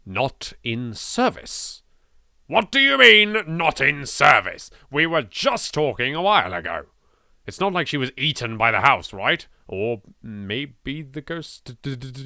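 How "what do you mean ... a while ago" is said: disbelief. Acted. Disbelief at dead number.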